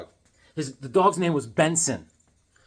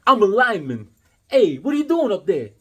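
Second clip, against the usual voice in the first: lightly higher, louder hammed-up film line; mock movie hero; 6 semitones higher, 5 dB louder than usual. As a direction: parody a cheesy B-movie lineman. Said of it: "I was like".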